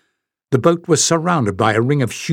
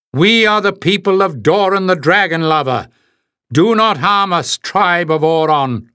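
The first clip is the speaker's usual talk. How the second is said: urgent gasp; 5 semitones higher, 3 dB louder than usual. A narrator's reading. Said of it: "he gasped".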